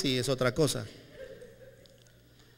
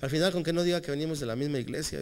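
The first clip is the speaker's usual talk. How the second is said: embarrassed aside; 2 semitones lower, 5 dB quieter than usual. Retold or imitated.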